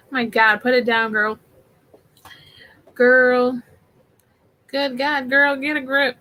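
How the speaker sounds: a loud, mock drag queen scolding; Drag Race quote. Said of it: "That was a Drag Race reference".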